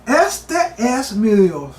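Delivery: meditative. Shown as a demonstration. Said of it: "medita un momento en esa frase".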